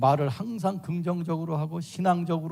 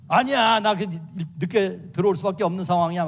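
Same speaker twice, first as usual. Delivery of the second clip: husband protesting; 4 dB louder than usual. Acted. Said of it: "막 떠들면".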